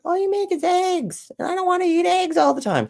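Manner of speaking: put-on high, whiny kid voice complaining about eggs; daughter's voice. Dad imitating daughter, high whiny complaint. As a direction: pitch it way up like a fed-up little girl. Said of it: "my daughter's just like".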